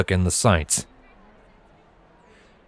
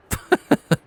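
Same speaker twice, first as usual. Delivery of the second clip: weak chuckle. Acted. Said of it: "Silver chuckled weakly".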